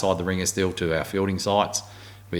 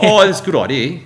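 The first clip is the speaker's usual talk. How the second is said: mock sarcastic reply; 11 semitones higher, 10 dB louder than usual. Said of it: "He goes".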